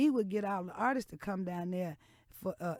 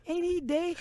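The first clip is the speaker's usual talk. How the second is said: blurted question; 9 semitones higher, 4 dB louder than usual. Retold or imitated. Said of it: "I looked at him, I said".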